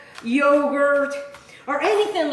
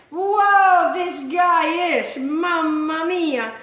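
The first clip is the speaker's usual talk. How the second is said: startled whoa; 4 semitones higher, 3 dB louder, much slower than usual. Real, not acted. Spice hits her nose.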